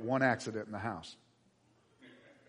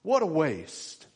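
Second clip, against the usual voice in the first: mock grumbling; 2 semitones higher, 6 dB louder, slower than usual. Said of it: "they're sitting around".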